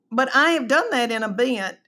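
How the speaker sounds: normal talking voice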